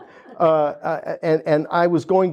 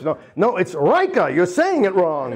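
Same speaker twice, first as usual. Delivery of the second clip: correcting salesman; 3 semitones higher than usual. Retold or imitated. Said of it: "he yells at me".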